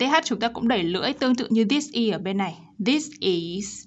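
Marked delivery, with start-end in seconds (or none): 2.9-3.8 "This is" with clear final s and z; teacher models both endings in "This is"; careful, separate "This is", endings released. Shown as a demonstration. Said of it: "Chúng ta có thể bật S ending sound".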